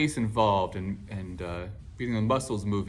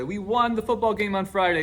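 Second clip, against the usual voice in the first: 1 proud student; 8 semitones higher, 3 dB louder than usual. Retold or imitated. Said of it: "And they say".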